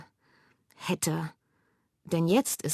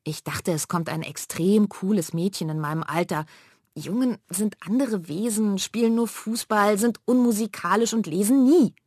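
building higher and louder; indignant rant; 4 semitones higher, 4 dB louder than usual. Acted. Immer lauter und höher empört. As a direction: sister ranting about boys to her mother. Manja ranting about boys.

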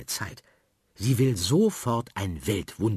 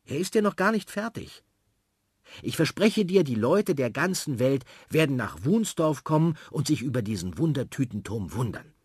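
put-on excited girl; 5 semitones higher than usual. Sophie promises, excited.

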